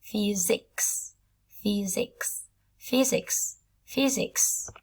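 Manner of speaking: "physics" with the s said as z, "fizziks"; "physics" read slowly with a clear z sound. Shown as a demonstration. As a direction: buzz the middle of "physics" like a z. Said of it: "các bạn đọc thành âm Z cho cô nha".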